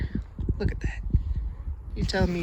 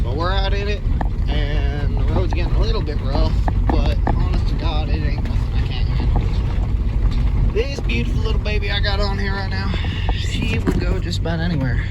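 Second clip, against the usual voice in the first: cowboy accent, pitched up toward the end; exaggerated cowboy accent; 5 semitones higher than usual. Real, not acted. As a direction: lay the cowboy accent on harder. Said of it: "doing my accent so much harder".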